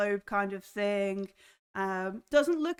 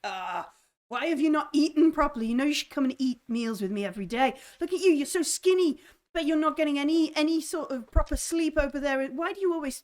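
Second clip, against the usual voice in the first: put-on higher, fond nagging old aunt; old aunt fussing over her skinny nephew; fussing auntie; 5 semitones higher, 3 dB louder, faster than usual. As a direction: scold him lovingly for not eating. Aunt scolds fondly.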